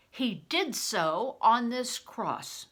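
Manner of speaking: loud, slow and firm; said loudly. A narrator's reading. Crispin loudly holding up the lead cross before the men. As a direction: press the point loudly to the crowd. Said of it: "I said loudly".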